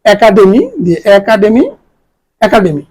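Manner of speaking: একাডেমি said with an open æ at the start; teacher's model of একাডেমি; model pronunciation. Shown as a demonstration. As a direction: open the first vowel of একাডেমি, "æ-ka-de-mi". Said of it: "মৌলিক স্বর এ".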